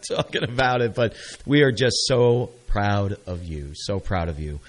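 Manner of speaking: slow, emotion catching in the throat; fighting back happy tears; choked up. Real, not acted. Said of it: "I'm just getting choked up".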